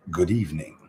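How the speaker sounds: low, hushed, mock-sinister greeting. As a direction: greet them like a hammed-up villain. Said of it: "That I say in a sinister voice".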